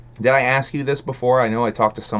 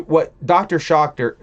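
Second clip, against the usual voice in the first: loud, slow, higher call of the name; drawn-out call; 6 semitones higher, 5 dB louder than usual. Real, not acted. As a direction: stretch the name out like announcing him. Reading out a chat username.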